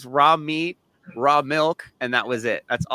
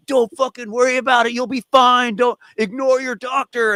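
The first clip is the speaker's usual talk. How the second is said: much higher, quick dismissive mock voice; lightly ape the carnivore fans brushing it off; hammed-up high voice of online commenters; 10 semitones higher than usual. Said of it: "screaming at him, like".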